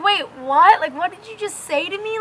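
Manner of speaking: rising, incredulous question; stunned disbelief. Retold or imitated. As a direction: retell your shocked double take. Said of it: "at that point in my head, I was like".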